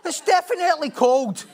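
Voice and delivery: giggling, stubborn retold protest; laughing insistence. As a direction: laugh while arguing the point. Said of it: "I says".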